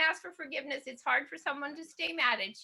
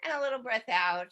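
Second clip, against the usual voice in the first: guided breathing. Shown as a demonstration. Leader guiding a calm breath in and out. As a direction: ease them into a breath.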